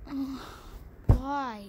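imitating a whiny sob, slow; mock whining. Retelling losing the ears, mock whiny crying. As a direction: drag out a hammed-up crying complaint. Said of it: "I was like".

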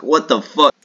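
real shocked yell; startled outburst. Real, not acted. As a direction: blurt it out in disbelief. Sudden surprise in game.

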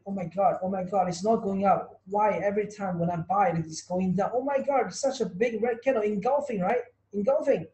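hammed-up panic of a trader caught in a red candle; panicky losing trader. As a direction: whine like a trader watching the price drop. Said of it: "will be crying".

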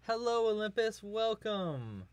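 high, drawn-out welcome; high greeting. Real, not acted. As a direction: greet a newcomer in a high put-on voice. Greeting a viewer in high singsong.

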